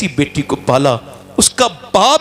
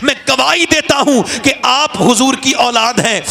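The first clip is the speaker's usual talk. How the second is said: tearful confession; 8 semitones higher than usual. Acted. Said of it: "پھوٹ پھوٹ کے رویا".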